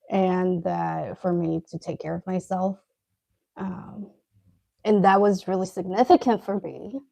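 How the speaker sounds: talking around a bite of food; chewing while talking; mouth full. Real, not acted. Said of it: "Sorry, trying not to choke on my food".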